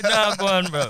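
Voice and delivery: loud London roadman slang; London roadman accent. Pretend. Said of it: "talk like man them".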